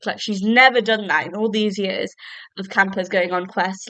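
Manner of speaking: blocked nose, short of breath. Real, not acted. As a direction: talk through a stuffed nose, breathless. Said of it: "I'm out of breath, bloody hell. I can't breathe from my nose".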